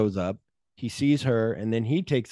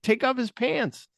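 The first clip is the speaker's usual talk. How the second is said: high, slow deadpan command; mock order; 12 semitones higher than usual. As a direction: draw it out high and matter-of-fact. Acted character's blunt order.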